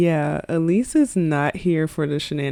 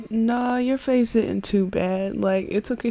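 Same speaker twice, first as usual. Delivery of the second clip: put-on reassuring boy; 4 semitones higher than usual. Boy reassuring the girl, voiced.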